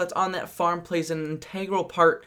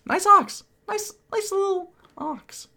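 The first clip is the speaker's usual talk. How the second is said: cooing; 12 semitones higher, slower than usual. Pretend.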